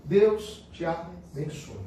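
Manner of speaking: slow, tender blessing; gentle blessing. Shown as a demonstration. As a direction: bless a stranger kindly, slowly. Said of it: "só vim pra te dizer uma coisa".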